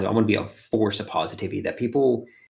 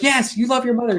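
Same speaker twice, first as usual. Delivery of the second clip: high mock mother voice; teasing mom voice; 14 semitones higher than usual. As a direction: tease the kid in a high mom voice. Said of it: "I'm like".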